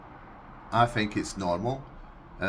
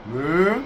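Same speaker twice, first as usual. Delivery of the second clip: cow moo; 4 semitones higher, 6 dB louder than usual. Shown as a demonstration.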